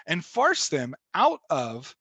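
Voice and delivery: slow, drawn-out Missouri accent. Real, not acted. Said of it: "you just heard my Missouri accent there".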